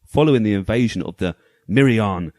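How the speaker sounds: dramatic storybook narration; story voice. Pretend. Host reading the game manual's story to co-hosts, story voice. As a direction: read it out like a pulp sci-fi tale, measured and weighty. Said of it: "my story voice on".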